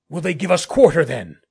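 loud parley across a distance; calling back. Acted. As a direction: call the question across to the other side. Shouted parley in the dark.

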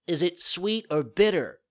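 put-on high, loud whiny puppet child; whining. A narrator's reading. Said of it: "asked in a whining voice".

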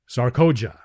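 a hint of the warrior addressing an enemy; stern call. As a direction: summon her sharply by name. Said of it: "said Tars Tarkas".

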